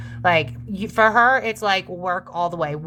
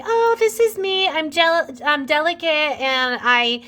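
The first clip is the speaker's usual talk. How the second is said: hoity-toity mock; 7 semitones higher than usual. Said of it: "seen as just this hoity-toity".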